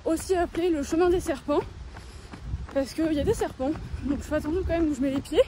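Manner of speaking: talking while jogging; while running. Real, not acted. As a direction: speak mid-run, a bit breathy. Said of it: "je suis en train de courir".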